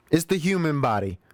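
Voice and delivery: lightly playful excuse; milder mock excuse. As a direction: repeat the joke, settling toward your own voice. Repeats the excuse less high.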